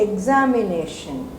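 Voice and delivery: examination with the weight on the first syllable; Malayali-style examination; Malayali accent. Shown as a demonstration. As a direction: say it the way a Malayali speaker would. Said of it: "if I'm a Malayali, I say".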